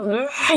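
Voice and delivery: imitated child's bawling; a brief put-on tantrum wail; mock crying wail. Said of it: "막 울고 막". (떼쓰며 우는 소리 흉내)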